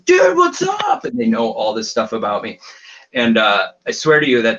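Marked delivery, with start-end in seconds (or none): 0.1-1.0 much higher, loud friendly call; loud greeting. Retold or imitated. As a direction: hail him like an old buddy. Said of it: "they go".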